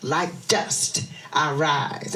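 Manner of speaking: dramatic poem reading; poetry recitation. Acted. Recites Maya Angelou poem.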